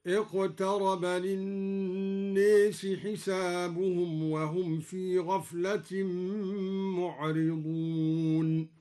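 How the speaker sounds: slow, drawn-out tajweed chant; Quranic recitation. Shown as a demonstration. Sheikh reciting to listeners in slow tarteel. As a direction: recite it slowly in measured tarteel.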